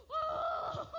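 high, loud, sudden "Oh!"; startled cry. Retold or imitated. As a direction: gasp it out as if hit by something. Struck by the Spirit, retold.

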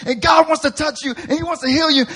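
timid preacher. Retold or imitated. Pastor mocking his scared India-trip preaching, high nervous pitch. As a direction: rush the altar call like a scared rookie.

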